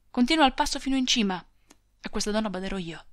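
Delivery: ordini rapidi e secchi, di fretta; perentorio e sbrigativo. Acted. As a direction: liquidala in fretta. (il marito congeda la moglie, rapido e perentorio)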